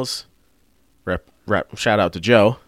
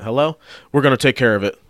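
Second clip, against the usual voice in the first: mock sudden politeness; 3 semitones higher, 5 dB louder, faster than usual. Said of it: "Immediately, attitude changed".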